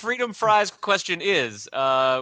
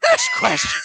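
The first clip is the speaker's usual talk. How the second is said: much higher, squeaked Next question; squeaky echo; 5 dB louder than usual. Pretend. Host mimics the cohost in a silly high voice. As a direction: squeak it like a cartoon.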